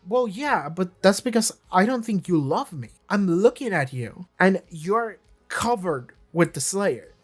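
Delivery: a hint of Drusilla's dreamy accusation. Drusilla turning Spike's confrontation back on him, lightly voiced. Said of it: "what Drusilla says is like".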